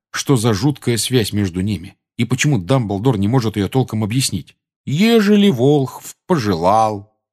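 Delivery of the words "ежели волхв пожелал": drowsy, slow and higher; reading while nodding off; sleepy reading. Acted. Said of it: "И до чего спать хочется?".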